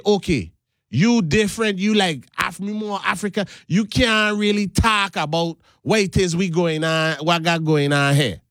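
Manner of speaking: Caribbean speech from the Virgin Islands; Virgin Islands accent. Shown as a demonstration. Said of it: "because I talk like this".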